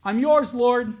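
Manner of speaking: high, loud plea of surrender; anguished cry to God. Acted. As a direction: cry out to the Lord in full surrender. Voicing a believer's cry to God.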